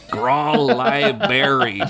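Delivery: slow, puzzled "Grawl library" read off the stone; reading the broken sign. Acted. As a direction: sound out "Grawl library" word by word. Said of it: "Boris said out loud".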